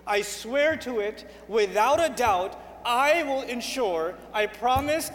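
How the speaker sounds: insistent, deliberate pledge; emphatic vow. Acted. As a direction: swear it solemnly, hammering every repeat. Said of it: "most emphatic form of language".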